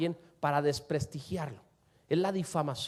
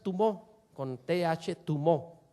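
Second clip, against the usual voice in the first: tumó, accented on the last syllable; stress on final syllable; much slower than usual. Shown as a demonstration. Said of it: "acento al final".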